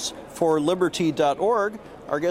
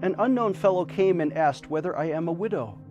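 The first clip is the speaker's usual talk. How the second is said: charity appeal. Acted. Fundraising appeal over music.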